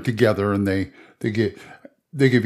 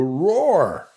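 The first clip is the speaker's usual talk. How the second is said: demo roar; 4 semitones higher than usual. Shown as a demonstration. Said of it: "Roar as much as you can".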